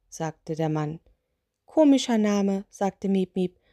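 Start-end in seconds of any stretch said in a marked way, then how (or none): 1.7-2.7 little witch. Acted. Witch echoes the spirit, lightly voiced little witch. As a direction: toss it back in the witch's voice.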